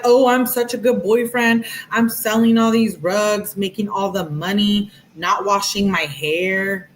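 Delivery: sarcastic imitation of a boastful boyfriend; mocking boyfriend. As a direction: mimic the smug boyfriend bragging.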